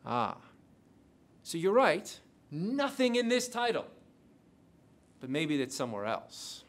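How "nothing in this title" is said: "this" stressed, read higher and slowly; emphatic reread. Shown as a demonstration. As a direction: pin down the word "this", slowly.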